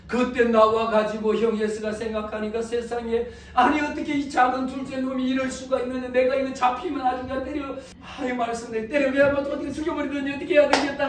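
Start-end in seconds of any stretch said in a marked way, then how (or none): 3.5-11.1 acted indignant rant, pitched higher; raised voice speeding up into a threat; fuming. Elder brother vowing revenge on the younger, fuming. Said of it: "얼마나 열이 받겠습니까".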